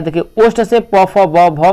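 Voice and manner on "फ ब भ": "फ, ब, भ" each sounded slowly and separately; slow sound demo. Shown as a demonstration. Teacher showing students the lip sounds, slow demo. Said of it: "बोला जाता है".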